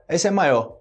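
"maior" ending on an open stressed o; final R dropped. Shown as a demonstration. Teacher imitates everyday Brazilian speech, dropped-R demonstration. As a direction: cut the R from "maior". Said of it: "muitas vezes, se torna o".

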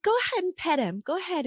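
put-on woman coaxing the boy to pet her dog, high and quick; encouraging stranger. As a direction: urge the shy child gently on. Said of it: "she was like".

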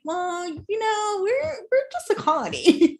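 a playful, giggling comeback; laughing mock reply. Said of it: "And you're like".

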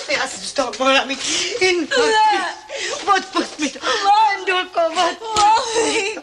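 laughing through tears; relieved sobbing sorry; tearful apology. Acted. Grandmother asking Vendulka's forgiveness, laughing through tears.

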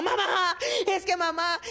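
high mock wail of a frightened girl; crying, screaming child. Daughter after a near crash, imitated high crying. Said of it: "la niña lloraba y gritaba".

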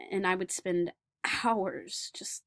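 put-on earnest young man recalling school, wistful; Daniel remembering childhood. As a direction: tell the memory as the lonely boy grown up. Performer plays Daniel Tammet.

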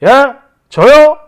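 slow, mocking "who, me?"; the man feigning innocence, slowly mocking; smug. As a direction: drawl it back like he did nothing. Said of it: "이럽니다".

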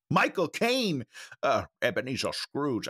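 lightly attempted impression of the actor; a hint of the actor, half-hearted try; Michael Caine. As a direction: have a tentative go at the actor's voice. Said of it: "I can't do a Michael Caine".

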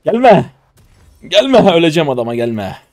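high, loud warning yell; alarmed shout. Real, not acted. Player warning someone not to come as he will die, alarmed shouting. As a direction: shout them away urgently, pitch way up. Warns someone away in the game.

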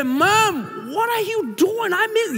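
mock high-pitched confrontation; half-shouted complaint. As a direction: confront her, not quite yelling. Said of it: "empecé como, no, no a gritarla, pero así".

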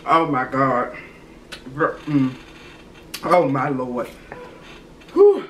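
with a sore tongue. Real, not acted. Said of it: "my tongue is numb".

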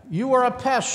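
high, loud angry shout; shouting squirrel. A narrator's reading. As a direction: shout it right back at her. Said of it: "shouted Squirrel".

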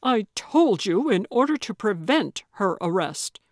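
agitated, emphatic protest; indignant and strained; shaking with anger. Acted. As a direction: force the words out, badly upset. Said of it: "his whole body shaking".

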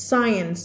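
"science" said sai-ens; silent C in SCIENCE. Shown as a demonstration. Teacher giving the correct reading, "science" as sai-ens. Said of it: "คำนี้อ่านว่า science".

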